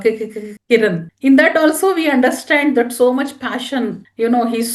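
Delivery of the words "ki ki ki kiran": lightly mimicked stammering film line; Shah Rukh Khan impression. Trainer quoting a famous movie dialogue to trainees, lightly imitated stammer. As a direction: stutter the first syllable, then land the name. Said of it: "famous Shah Rukh Khan dialogue".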